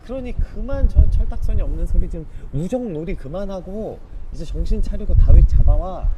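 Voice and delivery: enraged father yelling at a wayward son; furious king. Retold or imitated. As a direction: roar at him to quit the games and fetch David. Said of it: "이렇게 말하고 있는 것입니다".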